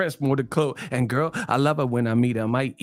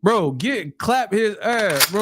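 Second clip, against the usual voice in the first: higher, louder laughing yells; higher loud hyped shouting; excited shout; 8 semitones higher, 5 dB louder than usual. Real, not acted. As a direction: shout him out of the room, high and loud. Shouting to remove a chatter.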